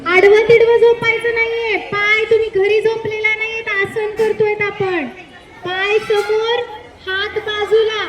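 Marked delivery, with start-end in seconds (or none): 0.1-5.1 louder, sharper telling-off; scolding. Real, not acted. Teacher scolding children lying sprawled during shavasana, loud. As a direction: snap the class back into line.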